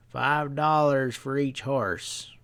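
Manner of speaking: slow drawling price, leaning on dollars; slow stableman drawl. Acted. Stableman quoting a steep price to Pat, slow drawl. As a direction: lay out the price slowly, unbothered.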